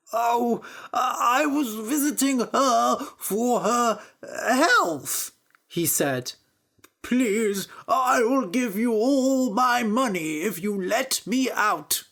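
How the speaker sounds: high, tearful begging; pleading priest. Acted. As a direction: plead with a sob in the voice.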